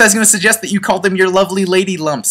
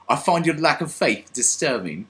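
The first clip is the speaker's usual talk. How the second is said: slow, soft Vader line; a hint of Darth Vader, slow and soft; lightly voiced Darth Vader quote; 5 dB quieter than usual. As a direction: murmur it slow like a gentle Vader. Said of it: "he's like".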